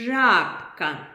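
жабка with the ж buzzed long and loud; stretched zh. Shown as a demonstration. Teacher leads the class chorus, ж buzzed long. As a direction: lean on the ж in жабка. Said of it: "А давайте разом скажемо".

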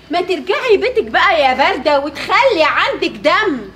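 loud, slow, cutting scolding; angry scolding. Acted. Wife yelling at her in-laws to go home, angry and slow. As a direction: tell her off and drag the words out. Quarrel with sister-in-law at home.

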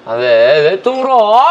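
loud, rising to a high yell; exasperated outburst. Acted. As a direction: cry out in exasperation at a bawling friend. 또 우는 친구에게 짜증. (답답해서 버럭)

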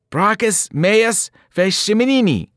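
high, loud, slow defiant shout; yelled Latin. A narrator's reading. Percy shouting back at the Fury, loud defiant yell. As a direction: hurl the Latin back at her. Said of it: "I yelled".

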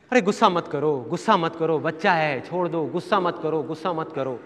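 gently calm an angry husband down; mother soothing. Retold or imitated. Mother pleading with father.

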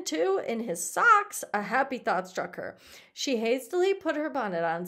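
animated read-aloud with leaning stresses; expressive story reading. A narrator's reading. Teacher reading a story to the class, expressive narration. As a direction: read it out with lively emphasis.

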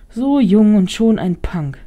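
put-on slow, sniffy old lady; disdainful old woman. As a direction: look down your nose, slowly. Old woman sneers at Emily.

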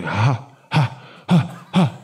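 separate, choppy imitated "ha"s; mock stuttered laugh. Comedian imitating a friend's date at it, choppy mock laughing. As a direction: imitate a laugh in broken single bursts. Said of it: "she started laughing. She was going".

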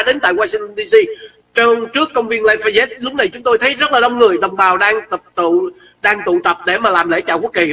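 reporter voice from the field; mock radio report. Live report from the rally, in a reporter's voice. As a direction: play the eager field reporter. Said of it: "Mình tường trình rất là ngon lành".

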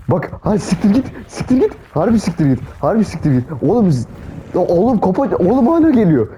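rising, high-pitched panic while running; real fright, pitch jumping up; panicked. Real, not acted. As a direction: beg the thing to go away, voice climbing. Fleeing a monster in game.

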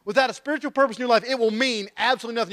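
quick, high-pitched preacher's insistence; impassioned preaching. Real, not acted. Preacher pressing the main point on the congregation, impassioned. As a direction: drive the point home in a rush.

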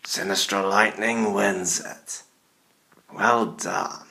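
spooky put-on announcer voice; scary Halloween voice. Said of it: "I'm using my scary Halloween voice".

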